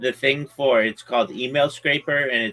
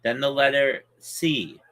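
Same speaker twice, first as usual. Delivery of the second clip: spelling it out. Shown as a demonstration. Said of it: "I'm spelling it for you".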